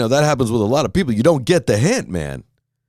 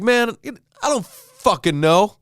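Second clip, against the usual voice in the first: much higher, slow, dragging mock whine; mock groggy whine; 11 semitones higher, slower than usual. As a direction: whine it out like a half-asleep man on the subway. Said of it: "And I'll be like".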